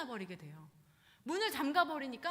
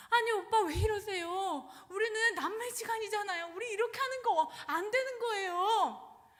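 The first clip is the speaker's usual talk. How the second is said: distressed pleading; 9 semitones higher, 7 dB louder than usual. Retold or imitated. Tamar begging her brother Amnon to stop, high tearful plea. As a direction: beg him to stop, near tears.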